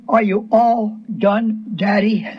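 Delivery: slow, gentle plea; imitated gentle child's question. Believer looking up at chastising God, gently asking. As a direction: ask slowly and tenderly, like the child. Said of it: "Real gentle".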